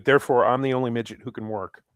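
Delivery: Dinklage. Acted. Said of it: "This was before Dinklage went completely fucking".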